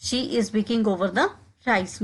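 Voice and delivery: slow, careful drill phrase; slowed classroom demo; slow model repetition. Shown as a demonstration. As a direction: say it slowly for learners to copy. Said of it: "इसको हम English में कहेंगे".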